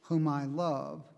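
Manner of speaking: slow, measured divine pronouncement; solemn pronouncement with long pauses between phrases; voice from the cloud. Acted. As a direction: speak as God from the cloud, drawing each phrase out. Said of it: "a voice from the cloud said".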